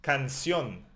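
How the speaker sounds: "Canción" stressed on the final -ción; stress on last syllable. Shown as a demonstration. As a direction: lean on the end of "Canción". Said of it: "We emphasize the end".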